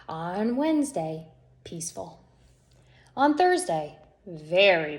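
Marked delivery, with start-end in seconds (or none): 1.6-2.2 soft whispered word; hushed blissful whisper. Acted. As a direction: breathe it out. Whispered peaceful day.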